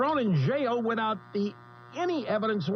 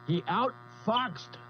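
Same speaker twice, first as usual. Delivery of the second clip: laughing through pain; 4 dB quieter, slower than usual. Real, not acted. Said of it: "it hurts to laugh".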